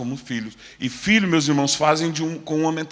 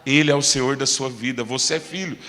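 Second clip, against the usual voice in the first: soft, lower reassuring words; 5 semitones lower, 4 dB quieter than usual. Acted. Preacher voices the Lord calming a worried believer, reassuring. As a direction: speak gently, as the Lord calming a child. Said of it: "Mas o Senhor tá falando".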